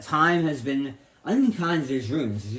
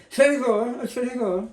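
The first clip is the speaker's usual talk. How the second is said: a hint of a Boston accent, higher; 9 semitones higher than usual. Shown as a demonstration. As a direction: say Tredegar Boston style, as TREDegah. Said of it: "she'll do it in the Boston accent".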